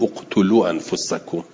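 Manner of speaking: «اقتلوا انفسکم» begun with u, said «uqtulu»; starting with damma. Shown as a demonstration. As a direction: start the word with a u sound on the hamza. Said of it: "باید بگوییم". («اقتلوا» با همزهٔ مضموم)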